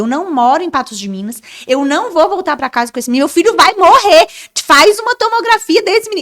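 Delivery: play-acted frantic, freaking out, high and rushed. Retelling a demand at a hospital desk: imitating own frantic outburst. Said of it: "E aí eu surtei".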